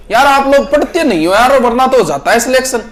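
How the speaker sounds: high, preachy lecturing voice of a new jobholder; mock know-it-all. Teacher mocking a newly hired know-it-all lecturing others, high smug voice. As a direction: mimic the smug advice-giver.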